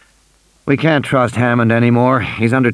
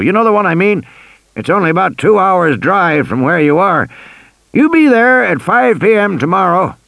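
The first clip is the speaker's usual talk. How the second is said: put-on old man voice; 7 semitones higher than usual. A narrator's reading. Hammond voiced in story.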